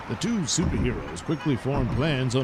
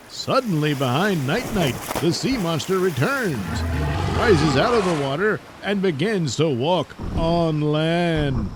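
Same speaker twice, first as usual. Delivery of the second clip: dramatic storybook narration, slowing at the end; story narration; 3 dB louder than usual. A narrator's reading. Narrator telling listeners the sea monster returns, dramatic narration.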